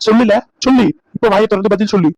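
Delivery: demanding shout. Acted. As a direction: bark the order at the son. Father demands answer. (மகனிடம் உரத்த குரலில் பதில் கேட்கும் தந்தை)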